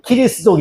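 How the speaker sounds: 키리스도 with a full ki at the start; Japanese pronunciation. Shown as a demonstration. Teacher repeating Japanese reading for class, 키리스도 starting with ki. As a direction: sound out 키리스도 as ki-ri-su-do. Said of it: "이렇게 읽어요".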